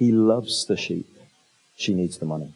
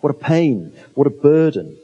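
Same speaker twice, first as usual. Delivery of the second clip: mock grumbling shepherd; 2 semitones higher than usual. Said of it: "He doesn't go home going".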